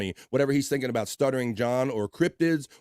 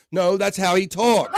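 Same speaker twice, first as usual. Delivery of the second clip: laughing; 7 semitones higher, 7 dB louder, slower than usual. Real, not acted.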